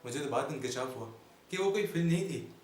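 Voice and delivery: theatrical comic recitation with dramatic pauses; comic stage monologue. Acted. Comedian addressing ladies and gentlemen about his life, mock-grand monologue. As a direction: declaim it like a mock-grand orator.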